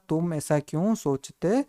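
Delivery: slow sentence for repeating along. Shown as a demonstration. Teacher asking students to say it along, slow read-out. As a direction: lead the class through it word by word. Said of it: "बोलो मेरे साथ".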